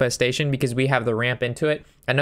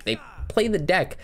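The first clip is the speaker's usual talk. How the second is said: higher, fed-up complaint; exasperated rant; 5 semitones higher than usual. Real, not acted. Streamer venting about netdeckers, fed up. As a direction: complain like you've seen it a hundred times. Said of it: "Sorry for that little rant there".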